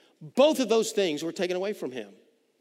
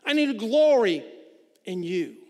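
lifted, higher and louder plea to God; pleading prayer; 7 semitones higher, 4 dB louder than usual. Retold or imitated. A psalmist pleading with God for hope, higher and louder. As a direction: cry out to God, begging him. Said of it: "And he looks at God and he says".

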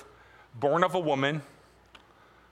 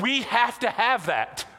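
put-on a child's pleading voice, higher; imitating his son; 6 semitones higher, slower than usual. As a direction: mimic an eager kid begging for something on TV. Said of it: "he's like".

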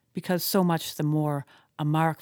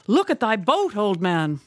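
louder, higher alarmed plea that drops at the end; calling out; 3 semitones higher, 4 dB louder than usual. Acted. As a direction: urge the old man to look. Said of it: "cried Starbuck".

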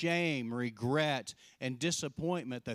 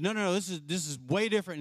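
agitated protest; 5 semitones higher, 3 dB louder, much faster than usual. Retold or imitated. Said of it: "Peter said".

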